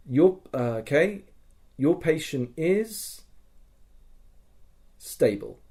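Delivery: slow, halting, with long pauses before stable; hesitant pauses. Retold or imitated. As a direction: drag it out, hesitating between words. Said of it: "the pause, the hesitation was amazing".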